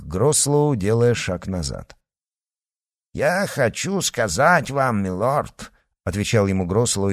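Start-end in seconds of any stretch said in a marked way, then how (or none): 3.1-5.7 put-on Irish accent, slowly. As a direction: fake an Irish brogue. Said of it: "имитируя ирландский акцент".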